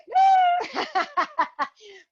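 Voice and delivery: a loud, high burst of laughter; delighted laugh. Real, not acted. Teacher laughing at her own game mistake, loud and high. Teacher caught skipping Wise Owl.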